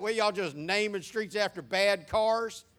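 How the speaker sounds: loud, high, drawn-out incredulous question; mock disbelief. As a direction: ask it loudly and slowly, as if baffled. Mock disbelief at odd street names.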